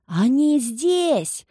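high, slow taunting yell; yelling child. Acted. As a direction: wail it like a mad boy. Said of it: "завопил Педрито".

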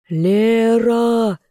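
high calling shout. A narrator's reading. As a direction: call her name loudly. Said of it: "кричали стражники".

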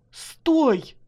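high, sudden cry of alarm; sharp cry. A narrator's reading. Wife cries out to husband at the edge, high alarmed cry. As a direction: cry out to stop him. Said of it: "вскрикнула Марина".

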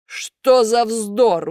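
very slow, surprised gruff scoff. A narrator's reading. Karabas scoffs at Buratino, surprised. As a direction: scoff in disbelief. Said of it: "удивился Карабас-Барабас".

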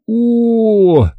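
long, high falling "oh"; drawn-out sighing exclamation; sighed "oh". A narrator's reading. Boy braces to eat the mess, sighing. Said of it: "вздохнул я".

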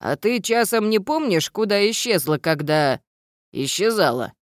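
lightly voiced gnome, quizzical; curious gnome. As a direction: probe like a puzzled old gnome.

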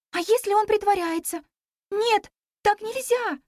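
put-on alarmed girl pleading; worried. A narrator's reading. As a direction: hold him back, frightened it's a trick. Worried girl stops friend.

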